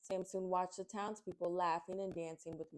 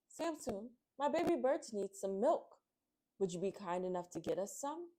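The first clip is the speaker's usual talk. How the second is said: mother bird calling. Acted. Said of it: "The mother bird called out".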